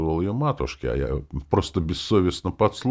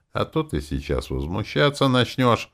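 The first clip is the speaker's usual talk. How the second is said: lazy drawl; 5 semitones higher than usual. Acted. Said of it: "пояснил он сестре в такой же ленивой манере".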